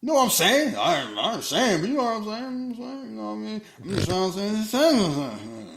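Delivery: high, stammering backpedal; nervous backpedal. Retold or imitated. Reed backpedaling to his wife Sue, high nervous stammer. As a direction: squirm out of what you just said.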